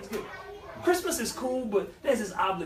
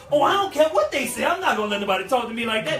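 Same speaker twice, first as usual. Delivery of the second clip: mock defiance; 4 semitones higher, 4 dB louder than usual. Voicing a proud defiant worker.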